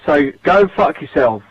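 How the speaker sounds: hostile, sneering abuse; angry rant. Real, not acted. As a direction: spit insults at him. Abusive voicemail played on show.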